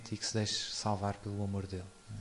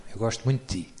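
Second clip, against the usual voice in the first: louder and louder, the same loving line over and over; God repeating like a broken record; 7 dB louder than usual. Retold or imitated. God telling humanity he loves it, insistently and louder each time. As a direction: keep insisting, as if stuck on repeat. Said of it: "É uma espécie de disco riscado".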